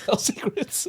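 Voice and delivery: hushed, voiceless secret-telling; playful whisper. Pretend. Echoing a friend's answer about intimate things, playful whisper. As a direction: whisper it like playground gossip.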